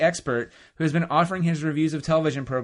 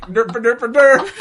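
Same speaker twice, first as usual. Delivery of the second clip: goofy derp voice; 7 semitones higher, 13 dB louder, much slower than usual. Retold or imitated. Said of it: "I was like".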